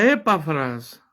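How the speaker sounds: "Epafras" said slowly, stress on the first E: É-pafras; slow "Epafras", stress on the opening E, not on the A. Shown as a demonstration. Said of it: "por eso la pronuncio así".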